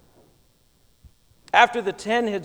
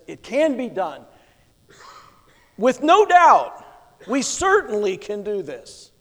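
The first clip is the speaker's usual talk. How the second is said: rally the people with certainty; brimming with optimism; 3 dB louder than usual. Retold or imitated. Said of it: "Brimming with optimism".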